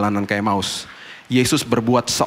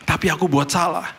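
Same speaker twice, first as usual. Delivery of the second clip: put-on child's voice; 10 semitones higher than usual. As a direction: play the sorry son, a hint of a child. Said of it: "Dia bilang".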